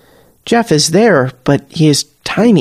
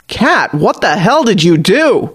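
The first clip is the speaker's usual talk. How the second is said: higher, swooping, appalled demand; horrified screech; 4 semitones higher than usual. A narrator's reading. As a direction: screech it in disbelief, without full volume. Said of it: "Patty screeches from across the bar".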